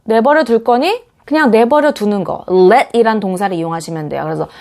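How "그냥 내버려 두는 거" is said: normal talking voice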